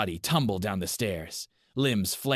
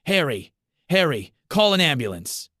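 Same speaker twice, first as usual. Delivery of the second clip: high, loud frantic yell; panicked shout; 8 semitones higher, 7 dB louder than usual. A narrator's reading. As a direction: scream for help down the hall. Panicked call for help.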